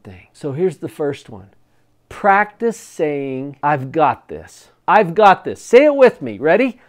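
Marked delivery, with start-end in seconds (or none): 3.6-5.6 firm, self-assured affirmation; confident. Shown as a demonstration. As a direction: say it like you mean it. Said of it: "say it with some feeling and with some confidence".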